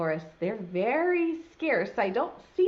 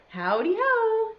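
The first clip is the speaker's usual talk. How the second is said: Hare's voice; 12 semitones higher, 6 dB louder than usual. Acted. Hare greets in the story.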